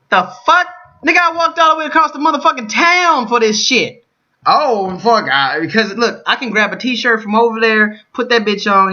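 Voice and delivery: very high, loud exasperated yelling; furious rant. Retold or imitated. Vlogger voicing what he wanted to say, furious. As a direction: rant at the top of his voice, outraged. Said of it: "That's how I really feel".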